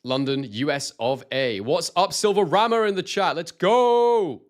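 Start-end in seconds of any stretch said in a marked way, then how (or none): 1.6-4.4 rising into a loud, high hype shout; excited hype. Real, not acted. Greeting a chat viewer on stream, loud excited shout. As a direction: pump up the chat, get louder and higher.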